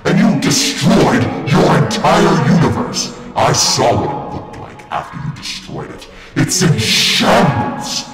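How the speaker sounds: yelling in outrage; angry shout. Acted. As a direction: shout him down, furious. Villains' heated argument.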